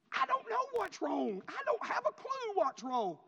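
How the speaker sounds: high, drawn-out wail; slow, hammed-up blubbering; mock crying. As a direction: imitate yourself bawling helplessly. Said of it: "you know, crying".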